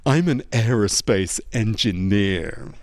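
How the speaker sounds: slow, low smug aerospace engineer; cocky audience member. Retold or imitated. Audience member telling the comedian his job, slow and cocky. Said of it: "And he just went".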